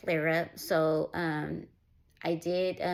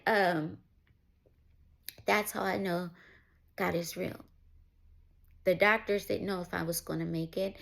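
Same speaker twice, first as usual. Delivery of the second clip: after crying. Real, not acted. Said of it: "getting teary-eyed".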